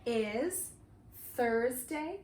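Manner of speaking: slow, chunked phrases with pauses for repetition; repeat-after-me. Shown as a demonstration. Teacher giving the date for the class to repeat, slow and chunked. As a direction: model the date slowly, word group by word group. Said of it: "repeat after me".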